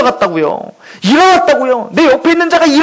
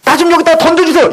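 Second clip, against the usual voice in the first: a touch of a begging invalid, pitched higher; lightly voiced cry for help to the Lord; sick man's half-acted plea to Jesus; mock plea of a sick man; 4 semitones higher, slower than usual. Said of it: "이렇게도 안 했다고요".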